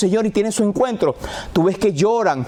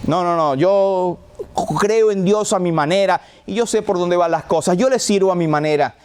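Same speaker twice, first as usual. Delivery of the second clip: smug know-it-all. Retold or imitated. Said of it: "con tu aire de que yo sé".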